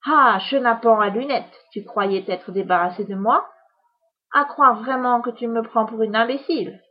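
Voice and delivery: indignant witch, lightly voiced; scolding witch. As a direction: sneer at the cheeky boy.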